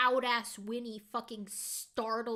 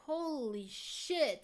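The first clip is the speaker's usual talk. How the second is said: shaken; 3 semitones higher, much slower than usual. Real, not acted. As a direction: let it out slowly, still spooked. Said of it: "that actually scared me".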